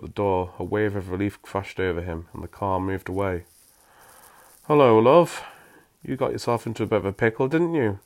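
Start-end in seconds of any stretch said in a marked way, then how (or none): 4.7-8.0 higher, cheery mum voice, quick on the middle line; a lightly voiced friendly mother; soft motherly voice. A narrator's reading. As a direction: greet him like a kindly mum. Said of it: "said a ni-, soft voice".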